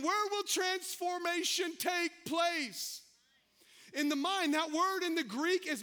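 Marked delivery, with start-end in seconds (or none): 0.0-3.0 slow, ringing preacher's question; slow shouted sermon question; preaching shout. Real, not acted. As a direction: call it out slowly to the room.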